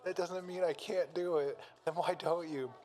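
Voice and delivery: lightly acted confrontation between androids; dramatic standoff.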